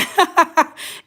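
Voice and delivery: short high laugh at herself; a quick amused laugh; light laugh at a typo. Real, not acted. Laughs at talk-to-text mistake.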